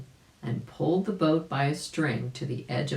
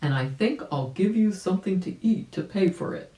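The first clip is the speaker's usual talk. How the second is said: Uncle Wiggily; 4 semitones higher than usual. A narrator's reading. Uncle Wiggily thanking the birds.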